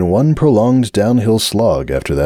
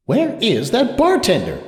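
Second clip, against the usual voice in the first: impatient; 14 semitones higher, slower than usual. A narrator's reading. Sunburst wants a drink, impatient and weary. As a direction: grumble for the missing bartender. Impatient inner thought, voiced.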